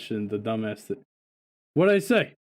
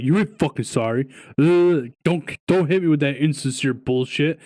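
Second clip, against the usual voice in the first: louder, imitating an annoyed friend; retold irritation; 3 semitones higher, 5 dB louder than usual. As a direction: throw the apology back with mock disgust. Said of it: "being a straight up dick".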